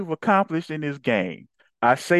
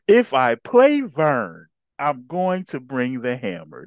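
slow, louder cocky boast; slow mock-cocky threat; mock boastful quote; 3 dB louder, slower than usual. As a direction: ham up his swagger, drawing it out. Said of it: "That's what I said".

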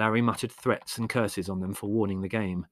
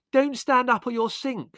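very high, loud panicky screech; alarmed cry, pitched right up; 6 dB louder than usual. A narrator's reading. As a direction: screech a warning. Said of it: "screeched Margot".

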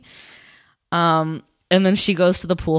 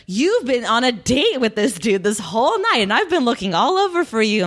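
raised pitch, swooping retold accusation; mock indignant complaint; 3 semitones higher than usual. Kevin confronts his date after searching all night, mock indignant. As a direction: act out an indignant gripe, lightly.

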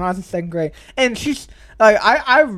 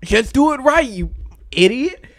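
mock berating of himself, a bit raised; toxic self-motivation; 3 semitones higher than usual. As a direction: scold yourself in exasperation. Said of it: "in a toxic way".

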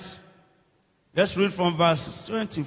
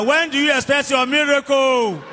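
emphatic challenge; 3 semitones higher, 4 dB louder than usual. Shown as a demonstration. Preacher asking the congregation to say it better, emphatic question. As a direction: press the question home, stretching MIRACLE. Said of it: "Say better".

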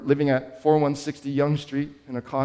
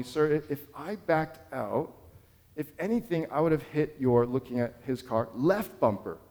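calm explanation; 4 dB quieter than usual. Retold or imitated. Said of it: "I just verbalized calmly".

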